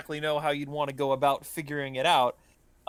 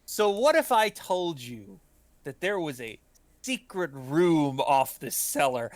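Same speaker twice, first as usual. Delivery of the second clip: theatrical host. Acted. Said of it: "he gestures to the room out loud".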